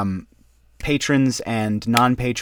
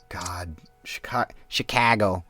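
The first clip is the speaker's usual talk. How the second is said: 1 whispered exasperation; 3 semitones lower, 6 dB quieter than usual. Real, not acted. Muttered complaint about Chicago.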